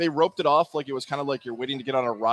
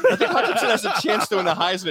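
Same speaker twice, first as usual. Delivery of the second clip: laughing redo; 4 semitones higher than usual. Shown as a demonstration. Cohost asked to redo his Heisman call, laughing. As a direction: replay the prediction while laughing. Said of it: "Can you do that part?".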